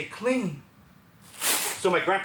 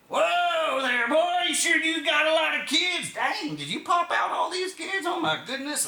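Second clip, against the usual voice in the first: local redneck voice; 11 semitones higher, 3 dB louder than usual. Retold or imitated. Missouri local gawking at the big group, high loud hick voice. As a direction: put on a backwoods Missouri local quizzing them.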